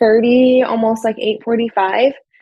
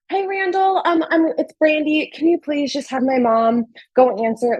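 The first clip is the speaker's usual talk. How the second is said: higher-pitched, hesitant phone request; retold anxious favour asked politely; urgent polite plea; 5 semitones higher than usual. Daughter phones restaurant owner to reach mom, pleading politely.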